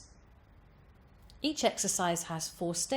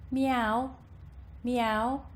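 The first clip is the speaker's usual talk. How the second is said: higher-pitched cat meow, without twang; 5 semitones higher than usual. Shown as a demonstration. Voice coach meowing like a cat, without twang. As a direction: meow like a cat, moderately raised. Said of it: "meowing like a cat".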